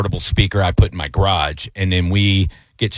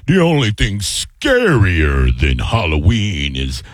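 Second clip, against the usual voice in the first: slow, deep spooky announcer; haunted house voice; 3 semitones lower, slower than usual. Retold or imitated. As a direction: taunt the neighbor like a ghost host. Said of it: "and I'll be like".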